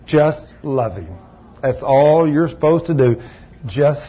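hushed, low, slow divine answer; God speaking softly. Retold or imitated. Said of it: "he spoke to me, and he says".

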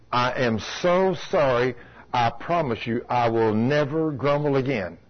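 slow, low earnest apology; retold repentance. Woman repenting to the Lord in her chair, retold contritely.

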